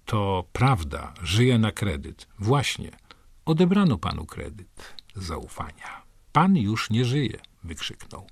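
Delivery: slow, measured poetry recital; poem reading. Acted. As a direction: read the poem slowly, letting lines land. Reads poem aloud.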